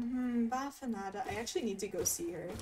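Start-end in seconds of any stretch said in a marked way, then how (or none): 0.0-1.3 lightly voiced bored shopkeeper; bored shop lady. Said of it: "a shop lady that sounds bored all the time".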